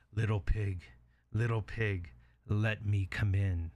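measured, slowing wolf voice; wolf at the door. Acted. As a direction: coax the pig, drawing out the last words.

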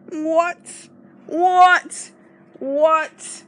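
loud, high repeated outcry; can't believe what she just heard; shocked disbelief. Real, not acted. Reacting to contestant's arrogance.

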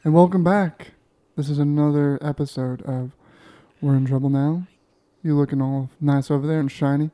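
sexy voice. Acted. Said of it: "weird and perverted".

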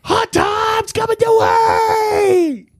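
slow, booming high announcer yell; announcer shout. Pretend. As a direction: hype it like a trailer voice. Booming show-title announcement.

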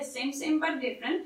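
put-on a light touch of an Indian accent. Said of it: "That's as far as my Indian accent will go today".

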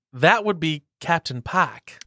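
slow, put-on Southern accent. Player answering the quiz, slow Southern accent. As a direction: draw it out with a Southern twang. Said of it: "Southern accent".

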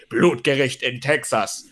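slow, booming seventies German trailer announcer; movie trailer voice. Retold or imitated. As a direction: announce it like an old film trailer. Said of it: "diese siebziger Jahre deutsche Trailerstimme".

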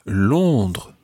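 "Londres" said the French way, nasal first vowel, silent s; French pronunciation. Shown as a demonstration. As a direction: model "Londres" in French for a learner. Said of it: "in French you say".

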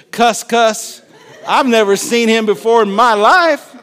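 hammed-up angry denial; heated denial. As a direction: protest indignantly, building to the end. Acts Peter's cursing final denial.

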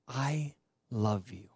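slow, tender declaration; tender divine reassurance. Retold or imitated. God tenderly reassures the kneeling believer, slow and tender. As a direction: let each word land slowly and gently. Retelling God's tender words.

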